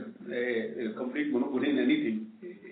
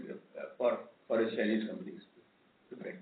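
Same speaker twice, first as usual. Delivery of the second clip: barely audible; 5 semitones lower, 7 dB quieter than usual. Real, not acted. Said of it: "Sir, your voice is very low".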